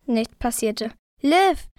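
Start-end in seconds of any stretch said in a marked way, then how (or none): 1.2-1.7 higher-pitched call of the name; mild narrated shout to wake someone; restrained yell. A narrator's reading. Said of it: "schrie ich nun so laut".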